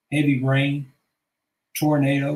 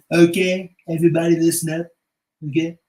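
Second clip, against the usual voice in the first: mock call for attention; 5 dB louder than usual. Voiceover announcer call.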